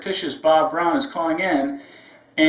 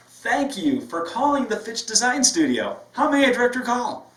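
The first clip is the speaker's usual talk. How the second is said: bright, high, louder phone greeting; upbeat greeting; 8 semitones higher, 3 dB louder than usual. Shown as a demonstration. Receptionist demos the right way to answer, upbeat and lively. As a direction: sell the smile down the line. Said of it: "We would say it like".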